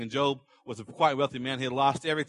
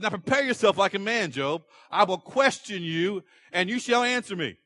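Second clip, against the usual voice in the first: sarcastic God; 4 semitones higher, 3 dB louder than usual. Acted. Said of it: "This is so sarcastic".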